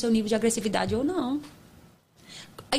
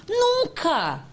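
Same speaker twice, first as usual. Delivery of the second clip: ênfase enfática; 10 semitones higher than usual. Real, not acted. Negação enfática em palestra.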